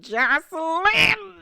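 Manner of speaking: high, long-drawn cry of her name; amused outcry. Real, not acted. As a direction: wail the name out slowly in delight. Exclaims the name in amused disbelief.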